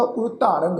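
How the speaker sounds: ਉਰਤਾਰੰਗ ending in a nasal "-ang". Shown as a demonstration. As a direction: end ਉਰਤਾਰੰਗ through the nose. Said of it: "ਨਾਸਿਕ ਉਚਾਰਨ ਹੋਏਗਾ".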